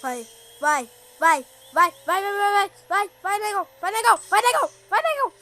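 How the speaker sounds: urgent rising cheer; excited cheering. Real, not acted. Cheering car on in race.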